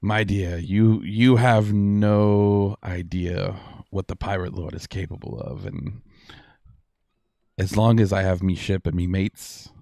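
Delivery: lightly voiced boastful pirate captain; pirate lord. Pirate lord boasting to a captive, lightly voiced. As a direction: play a cocky pirate lord, drawing out key words.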